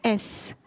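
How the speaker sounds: "एस" said as "ess", opening on a vowel; letter name sounded out. Shown as a demonstration. Teacher showing students the vowel sound, letter name sounded out. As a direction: sound out "एस" so the initial e is clear. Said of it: "इसी तरीके से इसको देखिए".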